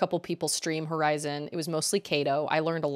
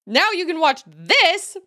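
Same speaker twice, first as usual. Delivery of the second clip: mock Netflix voice; 8 semitones higher, 4 dB louder than usual. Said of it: "throwing things out and being like".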